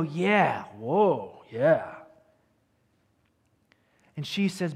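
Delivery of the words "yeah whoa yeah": mock family reaction. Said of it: "And they go".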